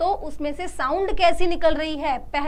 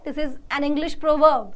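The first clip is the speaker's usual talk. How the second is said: slow model sentences; much slower than usual. Shown as a demonstration. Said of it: "model sentences for class".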